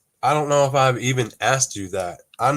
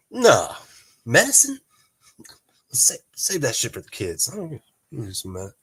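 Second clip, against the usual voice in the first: scoffing refusal. Retold or imitated. To his wife offering medicine, a mock scoffing refusal. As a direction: wave the medicine away like a stubborn guy. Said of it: "I'll be like".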